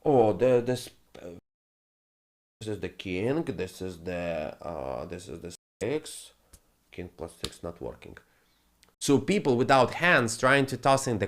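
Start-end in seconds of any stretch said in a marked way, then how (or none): 0.0-8.2 mock clueless gambler.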